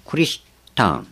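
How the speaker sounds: クリスタン said kurisutan with the ku sound; ポルトガル語の発音でクリスタン; Portuguese pronunciation. Shown as a demonstration. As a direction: say クリスタン as ku-ri-su-tan. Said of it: "クリスタンという発音です".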